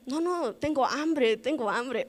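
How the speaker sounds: high, slow mock denial; flustered denial. Denying she is crying.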